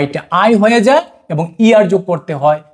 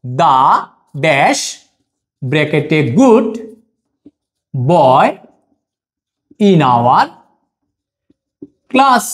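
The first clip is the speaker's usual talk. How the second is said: very slow, pausing between words; slow dictation; 3 semitones lower, much slower than usual. Shown as a demonstration. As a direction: dictate the sentence word by word. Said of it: "এবার কি করব?". (থেমে থেমে বলা)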